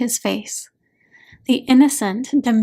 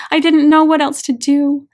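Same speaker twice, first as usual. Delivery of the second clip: louder, higher cry of agony; sobbing out her helplessness; anguished cry; 4 semitones higher, 7 dB louder than usual. A narrator's reading. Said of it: "The agony in her voice is indescribable".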